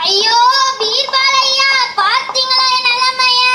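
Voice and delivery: high, whiny voice of a frightened gardener; a gardener pleading his innocence, high and whiny; panicky gardener. Acted. Gardener laments to Birbal.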